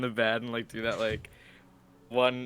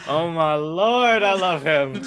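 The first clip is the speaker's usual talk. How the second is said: slow, high southern drawl; southern accent; 7 semitones higher, 9 dB louder, slower than usual. Acted. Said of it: "He keeps going southern".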